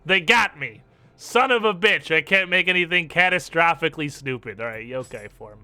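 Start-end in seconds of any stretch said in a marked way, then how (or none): 0.1-4.6 frustrated outburst. Real, not acted. Frustrated at character slider limits.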